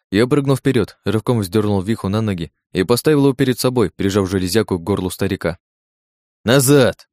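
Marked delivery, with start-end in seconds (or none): 6.4-7.1 loud, snarling command; growled order. Acted. Hostage-taker growls at the guard, menacing. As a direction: growl them back from the door. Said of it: "прорычал я".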